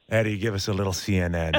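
laughing coach impression; imitating the coach. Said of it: "would go".

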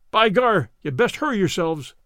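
loud urgent call from below. Acted. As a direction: hurry the men upstairs with a loud call. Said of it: "cried the man below".

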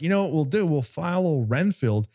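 a hint of a smug old hunter; Van Helsing voice. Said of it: "Van Helsing's like".

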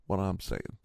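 ordinary delivery

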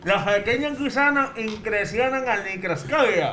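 labor through it without closing the lips; garbled mouth-game speech. Real, not acted. Mouth game, partner guesses distorted phrase.

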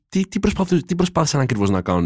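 high-pitched incredulous question; mock bafflement. Acted puzzled reaction to a show.

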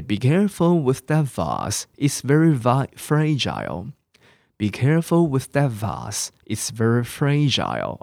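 "vase" as vahz, "fragile" ending in -ile; British pronunciation. Shown as a demonstration. Teacher giving an example sentence, British "vase" as vahz, "fragile" as FRA-jile. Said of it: "我念成vase，vase是英国人的念法".

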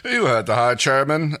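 loud high roar at the underlings. Acted. Rigel ordering the underlings out, with a loud roar. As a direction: bellow the order to clear the room. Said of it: "Rigel roared".

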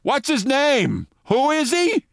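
high, slow, loud puzzled question; loud confused call. Retold or imitated. Mayor into the microphone, loud and confused. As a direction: blurt it out, lost. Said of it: "said loudly".

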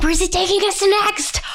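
whispered aside; a hushed, playful whisper. Retold or imitated. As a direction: whisper it like a secret. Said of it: "It's like".

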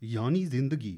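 Urdu line in a put-on Asian accent. Shown as a demonstration. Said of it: "put on a bit of an Asian accent".

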